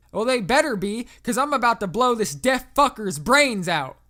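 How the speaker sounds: high, loud southern threat; pissed-off southerner. A narrator's reading. Landowner warns the operator that units better hurry, pissed off. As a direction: threaten them at full southern volume. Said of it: "He sounded pissed as fuck".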